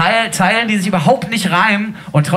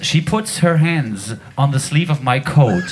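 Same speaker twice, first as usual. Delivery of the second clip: laughing; 3 semitones lower, slower than usual. Real, not acted. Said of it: "Das ist auch meiner".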